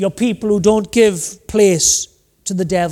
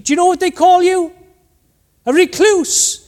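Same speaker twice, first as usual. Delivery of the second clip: higher and louder, driving the point home; emphatic punchline; 8 semitones higher, 4 dB louder than usual. Real, not acted. Preacher challenging the congregation, loud and pointed. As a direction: hit it hard, then land "A recluse".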